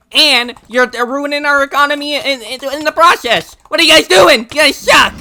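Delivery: starts near-conversational, ends in a high, loud yell; mock protester, building to a yell. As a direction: build from a gripe to shouting at them. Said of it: "because they're like".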